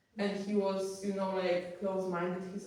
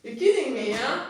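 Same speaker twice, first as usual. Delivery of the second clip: amazed disbelief; 3 semitones higher, 8 dB louder, faster than usual. Retold or imitated. Amazed reaction to strangers' help.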